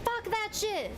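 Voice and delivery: loud, high curse; angry outburst. Real, not acted. Streamer curses the game in a loud high yell. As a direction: yell it at the screen.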